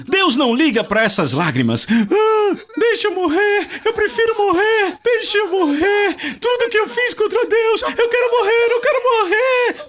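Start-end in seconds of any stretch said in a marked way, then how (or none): 1.9-9.8 high, whiny mock sobbing; mock whining. Mocking a crying believer who begs to die, in a high whine. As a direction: ham up a self-pitying wail. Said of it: "Por que você está aí chorando?".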